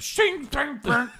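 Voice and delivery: high ringing sword clang noises; sword clashing sounds. Retold or imitated. Sekiro sword sounds mimicked.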